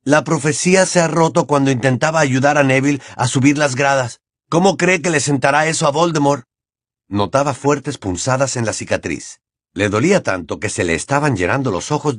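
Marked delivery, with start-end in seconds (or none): 0.0-6.4 lightly acted taunt, raised pitch; defiant taunting. Harry telling Bellatrix the prophecy broke, taunting. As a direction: goad her, voice pitched up.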